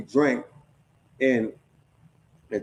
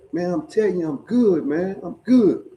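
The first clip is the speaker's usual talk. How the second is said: put-on drunk voice; 5 semitones higher than usual. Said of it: "in that motherfucking drunk voice".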